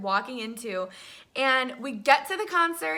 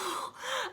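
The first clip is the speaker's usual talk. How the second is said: high, soft breath of awe; awestruck sigh; 9 semitones higher, 11 dB quieter than usual. Retold or imitated. Fan watching her idol run closer, awestruck sigh. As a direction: let out an overwhelmed breath.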